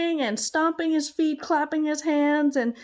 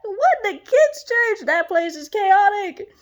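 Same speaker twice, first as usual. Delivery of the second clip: mock disbelief; 8 semitones higher, 5 dB louder than usual. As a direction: play a doubting listener. Imagined listener's disbelief.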